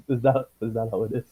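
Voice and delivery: tentative New Zealand accent try; attempted New Zealand accent. Shown as a demonstration. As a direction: have a go at a Kiwi accent. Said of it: "I'll try the accent".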